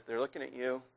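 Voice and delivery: starts hushed and low, builds to firm accusation; a nagging voice in the head, growing; lightly voiced inner critic, from hushed to pressing; accusing inner voice. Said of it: "what it says is".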